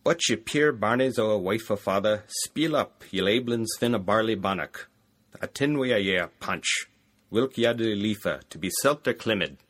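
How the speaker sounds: a tentative, lightly done Scottish brogue; half-hearted Scottish accent from a non-Scot reader; attempted Scottish brogue. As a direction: read the Scots peasant lines in a game but shaky Scottish accent. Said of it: "I don't think I can do a Scottish brogue".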